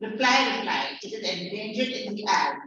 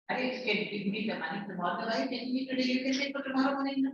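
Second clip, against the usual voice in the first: coaxing lender; 3 semitones higher, 5 dB quieter, much faster than usual. Acted. Acted dialogue, lender replies.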